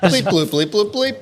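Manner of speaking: robot noises. Pretend. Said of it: "my robotic nature".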